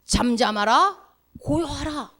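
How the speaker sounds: drawn-out biblical rebuke of the storm; slow solemn command. Shown as a demonstration. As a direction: slowly stretch 잠잠하라, then settle. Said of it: "뭐라고 명령합니까".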